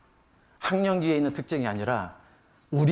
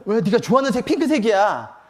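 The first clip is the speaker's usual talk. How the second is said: raised, louder mock protest of surprise; puzzled parent; 6 semitones higher, 5 dB louder than usual. Parent baffled that daughter rejects pink trousers, surprised mock protest. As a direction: protest in bewilderment, lightly acted.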